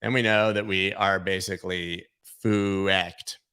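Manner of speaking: foo-ecked stretched slow into two syllables; slow, drag out foo-ecked; drawn-out swear. Shown as a demonstration. Vlogger softening the swear word by stretching it. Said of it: "foo-ecked".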